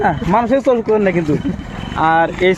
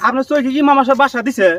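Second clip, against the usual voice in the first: acted irritation; 6 semitones higher than usual. Acted quarrel, seller snaps at customer.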